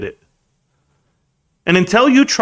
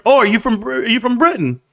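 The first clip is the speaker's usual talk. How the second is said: higher-pitched put-on Aussie accent; mock Australian accent; 7 semitones higher than usual. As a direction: do a playful, hammed-up Australian. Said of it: "I do Australian accents".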